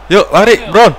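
loud, high call to run; urging shout. Real, not acted. Gamer urges his striker Brown to run, urging shout. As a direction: push the player on, yelling.

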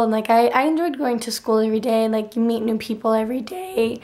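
hoarse, nearly gone voice; talking through a worn-out throat; lost voice. Real, not acted. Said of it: "my voice sounds so funny".

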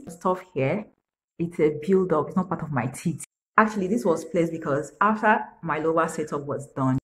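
talking while holding lip down; lip pulled down by finger. Real, not acted. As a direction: finger stretching mouth corner. Seen 0: finger pulls lower lip to show braces, on and off.

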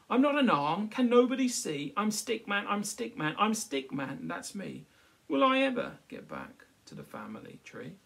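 high, loud, indignant stick voice; Stickman's protest. Acted. Stickman protesting to the crowd, high and insistent. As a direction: insist you're Stickman, not a poo stick.

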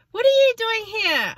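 high, loud mock-surprised squeal; imitating a surprised friend. Retelling a friend's surprise at the shops, high loud squeal. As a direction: squeal it like a startled acquaintance. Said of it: "She's like".

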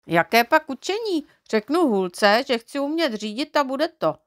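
vyšší, chvástavě; odbuď to jako chlubil; sebejistý Neználek. A narrator's reading. (Neználek se vychloubá Knoflence, vyšším hlasem)

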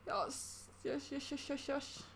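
breathless voiceless yes yes yes; hushed delight, repeated eagerly; whispered yes. Real, not acted. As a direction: whisper your excitement so no one hears. Whispered excitement at find.

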